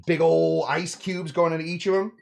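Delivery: playful put-on Creole accent; lightly hammed-up Creole accent, drawn on "big ol'". Bartender showing off the ice cubes, mock Creole accent. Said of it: "That's my Creole accent".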